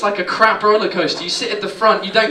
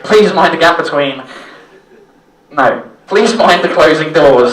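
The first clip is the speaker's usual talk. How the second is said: loud, slow tannoy call; tannoy announcer; 4 semitones lower, 8 dB louder than usual. Retold or imitated. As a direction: boom it over the platform speaker. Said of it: "same voice".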